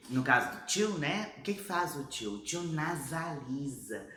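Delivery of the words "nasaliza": drawn out. Shown as a demonstration. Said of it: "Manda o som pro nariz".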